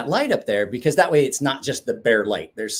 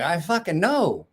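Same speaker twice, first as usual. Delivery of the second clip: weary agreement; 5 semitones higher than usual. Retold or imitated. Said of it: "I'm like".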